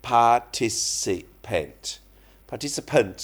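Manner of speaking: participant with stress on -tic-; pronunciation model. Shown as a demonstration. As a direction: model participant slowly, syllable by syllable. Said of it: "participant ก็คือคน". (ออกเสียง participant ช้าๆ ชัดๆ)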